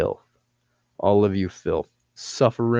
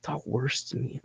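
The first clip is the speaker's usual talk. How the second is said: mock pleading viewer; 3 semitones higher, 9 dB quieter than usual. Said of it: "You're probably just like".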